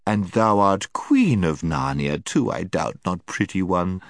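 coaxing, half-mocking. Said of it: "in the same coaxing, half-mocking tone".

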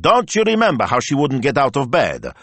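high, insistent, escalating demand; agitated plea climbing in pitch. A narrator's reading. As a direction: press the point harder each time. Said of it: "he demanded".

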